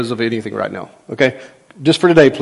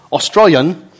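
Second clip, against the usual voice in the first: amateur Australian accent; 3 semitones higher, 3 dB louder, slower than usual. Shown as a demonstration. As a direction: attempt the word in Australian English. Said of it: "Is that a good accent?".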